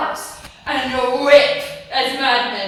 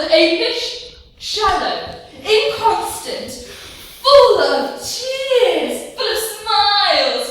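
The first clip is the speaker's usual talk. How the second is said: laughing; 6 semitones higher, 5 dB louder, slower than usual. Acted. Rosalind mocking fickle lovers.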